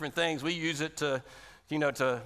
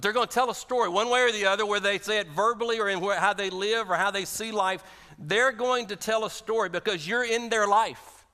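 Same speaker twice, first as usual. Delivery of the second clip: louder, faster, higher, preaching hard; preaching at full force; 4 semitones higher, 4 dB louder than usual. Real, not acted. Preacher to congregation, rising to a loud fervent push. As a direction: build it up and drive it home.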